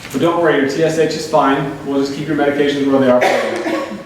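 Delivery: dry mock reassurance with a chuckle; sarcastic. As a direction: fake comforting, sarcastic. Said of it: "I'm glad somebody knows I'm being sarcastic".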